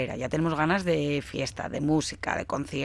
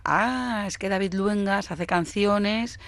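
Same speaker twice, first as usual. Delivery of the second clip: higher-pitched mock realisation, drawn out at the end; voicing public reaction; 4 semitones higher, slower than usual. Host imagines what listeners will think of the singer, mock realisation. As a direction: lightly play everyone catching on, starting high and easing down. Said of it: "ahora todo el mundo pensará".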